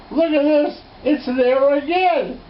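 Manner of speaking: high and loud, slowing on the last words; thrilled exclaiming. Retold or imitated. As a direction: show her the find, bursting with excitement. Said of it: "And I went".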